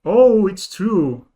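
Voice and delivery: slow realisation. Real, not acted. Chat convinces him.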